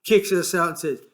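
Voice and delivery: bitter grumble about the bus driver; angry. A narrator's reading. George cursing the bus driver, angry. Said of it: "He said angrily".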